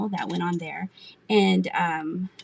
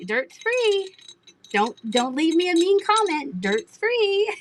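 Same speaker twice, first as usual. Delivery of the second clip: imitating Rustic Orchid, much higher and brighter in pitch; high-pitched impression of a seller; 9 semitones higher, slower than usual. Quoting seller Rustic Orchid's catchphrase, high mock voice. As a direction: lightly mimic a cheerful seller, pitched way up. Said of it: "Rustic Orchid's always like".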